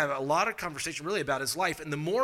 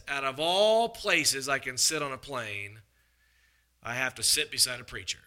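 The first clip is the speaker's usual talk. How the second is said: exasperated. Retold or imitated. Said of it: "rolls his eyes and he sighs".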